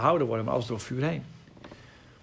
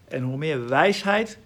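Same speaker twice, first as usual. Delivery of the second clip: normal talking voice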